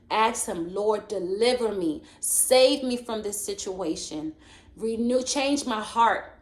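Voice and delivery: preaching. Acted. Preacher urging listeners to pray, rising. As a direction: urge them to cry out to the Lord.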